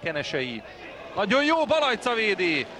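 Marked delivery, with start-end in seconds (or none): 1.1-2.7 excited commentary. Real, not acted. Save called live.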